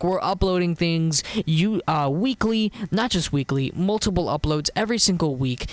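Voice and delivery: stiff, canned outro announcer read; robot voice. Pretend. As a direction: rattle off the sign-off like a robot. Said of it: "let's just switch into my robot voice".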